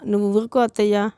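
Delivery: mild mock snap at mother-in-law; a touch of a sharp retort; understated irritated outburst; snapped. A narrator's reading. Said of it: "Amara అరచింది".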